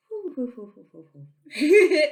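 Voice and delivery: airy, spooky hoo sounds, breaking into a laugh; ghostly intuition whisper. Shown as a demonstration. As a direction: play the faint inner voice as a mock ghost. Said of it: "your intuition is way more of a whisper".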